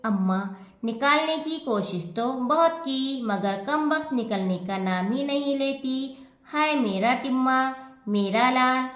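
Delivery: a touch of tearful pleading. Acted. Mother tells her own mother she can't free her son, mildly tearful. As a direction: near tears, lamenting mildly. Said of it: "रोनी आवाज़ में".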